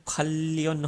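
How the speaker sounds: खल्लियन with a long double L; Korean assimilated sound. Shown as a demonstration. Teacher gives learners the final sound, assimilated pronunciation. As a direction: hold the L through खल्लियन. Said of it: "इसका जो final sound होगा वो".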